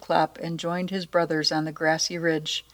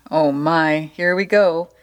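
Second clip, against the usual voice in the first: excited troll; 5 dB louder than usual. Acted. Troll excited before the goat.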